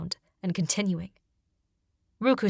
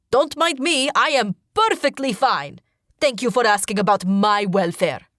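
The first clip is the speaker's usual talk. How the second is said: higher, louder sarcastic call; crying out; 4 semitones higher, 5 dB louder than usual. Acted. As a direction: call it out loud, mock-cheerful. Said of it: "Zahid cries out".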